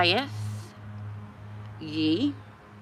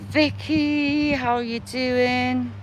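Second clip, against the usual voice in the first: cheery greeting; 4 semitones higher, slower than usual. Pretend. Greeting a grave like a friend.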